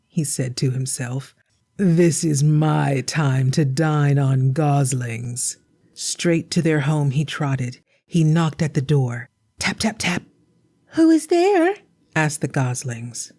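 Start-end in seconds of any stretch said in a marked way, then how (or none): 1.8-5.6 slow sly voice to himself; scheming wolf. Acted. 10.9-11.7 put-on high eager children's voice; small chicks promising to be good; little goslings. Goslings at door.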